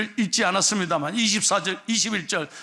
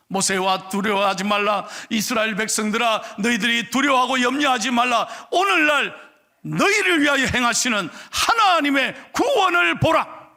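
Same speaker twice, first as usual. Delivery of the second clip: proclaimed scripture; 3 semitones higher than usual. Acted. God's words proclaimed.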